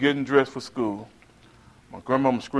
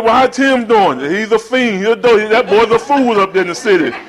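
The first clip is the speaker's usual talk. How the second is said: neighbors and grandma; 8 semitones higher, 7 dB louder than usual. Retold or imitated. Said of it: "They said".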